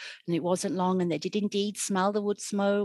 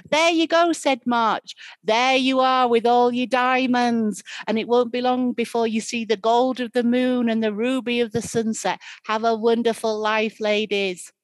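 high, loud, gleeful spirit voice; booming windy spirit; 5 semitones higher, 8 dB louder than usual. Acted. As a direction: blast it out like a gust. March blows them away gleefully.

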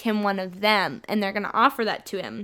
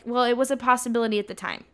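quick, mildly irritated mock reading; annoyed; faster than usual. Alice answering Bella's wish, mildly annoyed. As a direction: rattle it off with a touch of annoyance. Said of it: "I read it in an annoyed voice".

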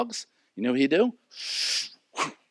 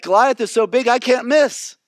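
confident; 8 semitones higher, 4 dB louder than usual. Retold or imitated. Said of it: "And David is like".

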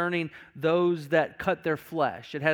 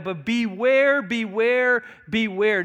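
BEWARE drawn out louder and higher each time; emphatic repeated warning; 4 semitones higher, 4 dB louder, slower than usual. Retold or imitated. Preacher voicing Paul's warning to the church, emphatic. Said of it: "Notice Paul's emphasis here".

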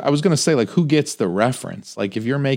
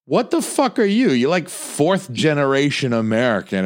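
incredulous retort; 3 semitones higher than usual. Retold or imitated. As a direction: scoff at the poser friend. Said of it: "And I'm like".

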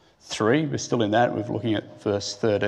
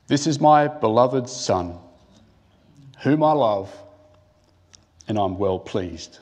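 slow, louder, grand proclamation from heaven; majestic voice of God; 3 dB louder than usual. Pretend. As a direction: announce it like God speaking from the clouds. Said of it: "Can you imagine the majesty of this voice when God says".

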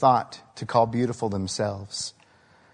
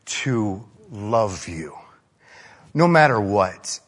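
put-on slow, hushed promise to the child; drawn out and gentle, like a parent's vow; tender vow; 3 semitones lower, slower than usual. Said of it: "and say".

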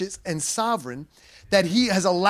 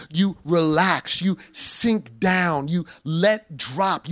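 lowered, very slow and easy, as if sinking into bed; slow relaxing demo; much slower than usual. Shown as a demonstration. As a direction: let each phrase melt away, slowly.

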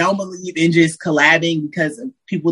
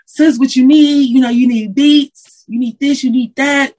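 caring brother; 6 semitones higher, 4 dB louder than usual. Retold or imitated. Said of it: "and they like".

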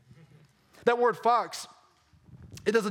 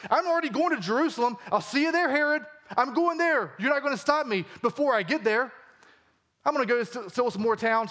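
raised, emphatic defiance; a touch of cocky Jesus; defiant confidence; 4 semitones higher than usual. Acted. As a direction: taunt Herod boldly. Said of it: "He says".

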